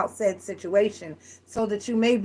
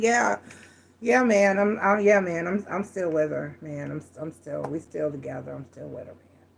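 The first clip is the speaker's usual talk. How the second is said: sag under the question until it dies out; tired, aggravated; 4 semitones lower than usual. Retold or imitated. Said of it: "you can hear the tiredness and the aggravation".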